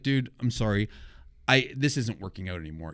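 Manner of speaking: gently letting him down, retold; nice, apologetic. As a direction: break it to him kindly. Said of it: "I was really nice about it".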